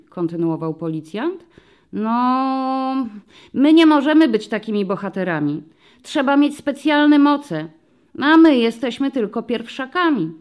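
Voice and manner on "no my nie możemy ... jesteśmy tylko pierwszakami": put-on high, louder child voice with a touch of sadness; a hint of a discouraged first-grader; sad little girl. A narrator's reading. Girl tells the policeman they can't be heroes: childlike, a bit sad. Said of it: "ze smutkiem stwierdziła dziewczynka".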